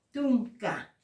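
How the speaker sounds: TUNCA with an unaspirated Spanish t; crisp t without breath in TUNCA; clean T. Shown as a demonstration. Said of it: "la T limpia".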